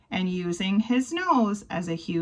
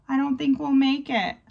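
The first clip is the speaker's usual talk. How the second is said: higher, fast, fretting mouse squeak; worried squeak; 5 semitones higher, faster than usual. Acted. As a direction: rush it out like a worried little mouse. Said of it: "squeaks Marvin".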